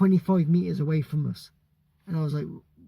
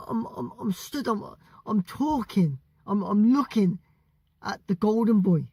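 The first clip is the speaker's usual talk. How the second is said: starstruck excitement; 4 semitones higher than usual. Retold or imitated. Retelling meeting Oscar De La Hoya.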